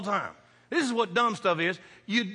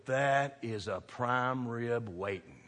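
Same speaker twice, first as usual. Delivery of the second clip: slow relish; 8 semitones lower, 5 dB quieter, much slower than usual. Retold or imitated. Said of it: "I go".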